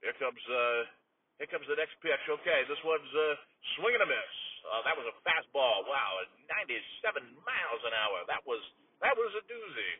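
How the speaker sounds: radio baseball call, measured and even; easygoing sportscaster narrating the at-bat; live play-by-play. Acted. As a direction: call the pitch like a ballpark announcer. Play-by-play of the pitch.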